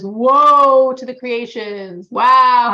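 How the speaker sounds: loud, drawn-out heavenly lament. Retold or imitated. Heavenly voice laments to creation from Mount Sinai, crying out loudly. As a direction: cry out the woe, stretching it long and loud. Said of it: "that heavenly voice that comes out from Mount Sinai and says".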